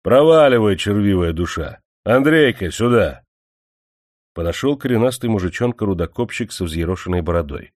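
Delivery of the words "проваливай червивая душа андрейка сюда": lightly voiced rude dismissal. Manager drives off miner.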